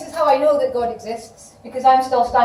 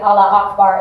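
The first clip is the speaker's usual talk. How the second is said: a loud retold chant of Allah Akbar; called out; 3 semitones lower, 8 dB louder than usual. Retelling his protest, calling out loud.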